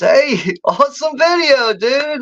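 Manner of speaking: mocking commenter. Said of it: "the comments that Todd leaves".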